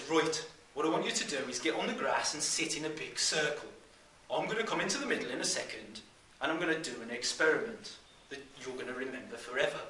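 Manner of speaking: broad Brummie teacher giving instructions; Brummie accent. Acted. Teacher sets up circle for experiment, in a Brummie accent. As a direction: instruct the class in a put-on Brummie voice. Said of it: "in his best Brummie accent".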